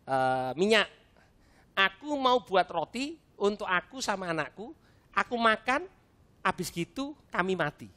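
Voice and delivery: lightly pitiful plea, halting with pauses; acted pleading. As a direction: play up the hardship a little, piece by piece. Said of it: "pakai ilmu memelas". (agak memelas, terputus-putus)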